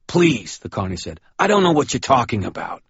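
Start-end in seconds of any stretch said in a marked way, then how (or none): 0.1-0.6 high, nervous plea; pleading carney. Acted. Frightened carney pleading with the cop. 1.4-2.8 high, jittery lie; lightly voiced scared carney; nervous carney. Carney lying to the cop, nervous high voice. Carney lies to Murphy and Dresden.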